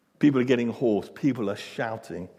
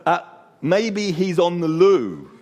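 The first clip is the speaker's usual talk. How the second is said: mock concern; 6 semitones higher, 7 dB louder than usual. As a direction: tease them with fake concern. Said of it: "friendly encouragement".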